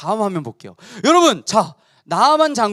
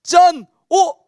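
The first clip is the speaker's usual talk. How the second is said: 신나는 짠; 6 semitones higher, 7 dB louder, much slower than usual. Acted. 기적 장면 효과음.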